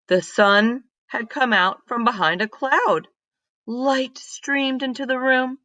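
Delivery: put-on lively read-aloud voice for kids; storybook reading. Teacher reading a story to her class, lively read-aloud. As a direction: tell it like a picture book to a class.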